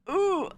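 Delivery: high, loud squirming ooh; cringing "ooh". Real, not acted. Streamer squirming over suggestive thumbnails, cringing. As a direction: recoil with a sharp high ooh. Cringing at how she is treated.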